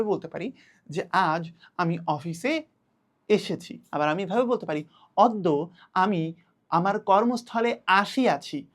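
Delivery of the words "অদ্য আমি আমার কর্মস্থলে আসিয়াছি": formal sadhu style. Shown as a demonstration. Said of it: "অফিসের বদলে বলছি কর্মস্থল".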